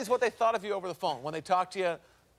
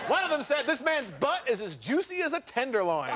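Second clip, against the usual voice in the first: high-starting announcer delivery; showman read-out; 5 semitones higher than usual. Acted. Host reads a lady's comment on his body, showman voice. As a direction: present the quote with relish.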